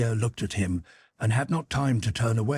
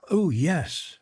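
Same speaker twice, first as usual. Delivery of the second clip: higher, polite "forced smile" voice; 6 semitones higher than usual. A narrator's reading. Pierre answering the stranger, forced smile. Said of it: "with a forced smile".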